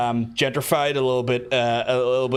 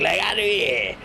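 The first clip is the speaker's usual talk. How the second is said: higher mock call; Belfast catchphrase; 5 semitones higher, slower than usual. Shown as a demonstration. Streamer repeating the phrase that puzzles outsiders, high mock call. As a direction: pitch the catchphrase up comically. Shows off his local catchphrase.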